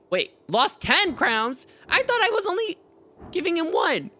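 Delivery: wait, what, caught off guard; real surprise; surprised. Real, not acted. Surprised at coin loss.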